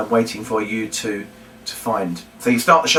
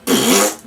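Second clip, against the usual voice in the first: laugh; 6 semitones lower than usual. Shown as a demonstration. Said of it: "if you go".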